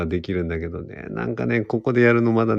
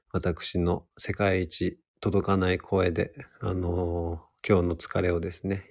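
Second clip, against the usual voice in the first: softer, measured and gentle; soothing healer persona; 5 dB quieter than usual. Pretend. Radio host soothing tired listeners on Monday night, softly. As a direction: ease listeners gently out of a tiring day. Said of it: "一番の癒し系キャラ".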